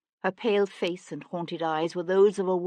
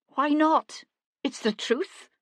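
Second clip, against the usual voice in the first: defiant challenge; 10 semitones higher, 4 dB louder, slower than usual. A narrator's reading. Cat challenges him.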